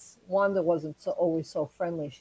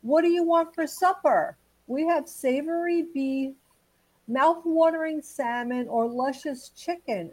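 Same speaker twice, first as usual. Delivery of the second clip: higher-pitched mock yell; wife yelling; 6 semitones higher than usual. Wife asking her husband about supper, mock yelling. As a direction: call it out like a wife from another room. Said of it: "his wife is yelling".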